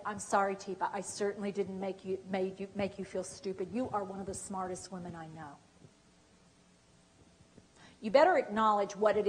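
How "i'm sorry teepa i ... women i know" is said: softer, sincere, reassuring apology; a soft, sincere apology to the upset person. Shown as a demonstration. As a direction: apologize gently and mean it. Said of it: "you need to be real willing to say".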